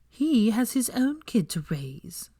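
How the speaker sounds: dark, slow half-whisper; darkly. A narrator's reading. Hermione bitter about his kid, said darkly. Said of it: "she said darkly".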